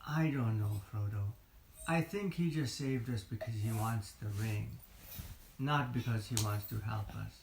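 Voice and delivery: lightly voiced suspicious Sam; doubtful Sam. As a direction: sound wary and unsure. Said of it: "Then Sam said".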